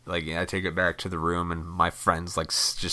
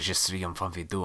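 mock French; 6 dB quieter, faster than usual. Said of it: "it sounded like French".

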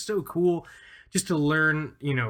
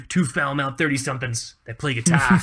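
punchy, louder mock Massachusetts accent; 6 dB louder than usual. Podcaster hamming up two foul-mouthed guitar dudes, in Massachusetts accent. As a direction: put on a playful Boston-area Massachusetts accent. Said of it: "doing my Massachusetts, quote unquote, Massachusetts accent".

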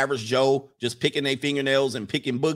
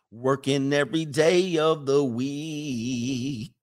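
slow, dramatic wife's complaint; imitating wife; 4 semitones lower, slower than usual. Husband imitating the wife demanding payment, slow and dramatic. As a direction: drag out each grievance like a wronged wife. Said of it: "She gonna say".

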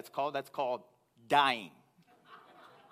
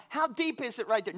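calling down; 9 semitones higher, 3 dB louder than usual. Retold or imitated. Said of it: "I yelled down".

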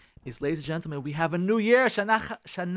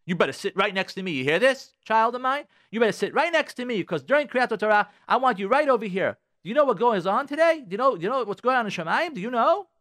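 high, loud stern demands; harsh parental scolding; 7 semitones higher, 5 dB louder than usual. Acted. Parent ordering child to sit beside them in shul, harsh scolding. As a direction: order the child over, insistent and high-pitched. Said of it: "It's not the way to speak to our children".

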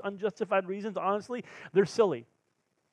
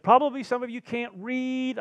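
mock sarcastic TSA worker; 7 semitones higher, 5 dB louder than usual. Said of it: "worker was being super sarcastic, like, super loud".

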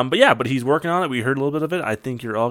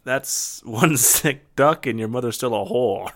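sketch Sean Connery, gloating; slower than usual. Acted. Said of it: "the hilarious sketch from SNL".

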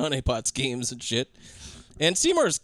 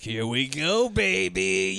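mock eager anticipation; 3 semitones higher, much slower than usual. Voicing the man's gleeful reaction.

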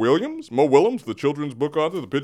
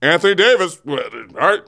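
imitating Rob Pelinka; 3 semitones higher than usual. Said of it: "And so Rob Pelinka said".

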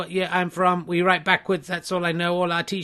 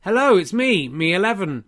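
impression of someone close; 3 dB louder than usual. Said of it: "impressions of anyone close to home".

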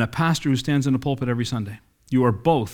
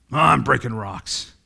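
slow, weary drag of a man who just breaks rocks; listless laborer, dragged out; bored worker; slower than usual. Acted. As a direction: sound like the job means nothing. Repeats first worker contrast.

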